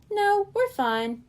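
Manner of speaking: high, slow, stubborn denial; insisting. A narrator's reading. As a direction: insist you're not tired. Coral insisting, fighting sleep.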